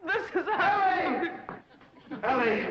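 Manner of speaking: high, loud, drawn-out cry of rapture; lovestruck cry. Acted. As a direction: cry her name out as if bewitched. Charmed suitor cries out her name.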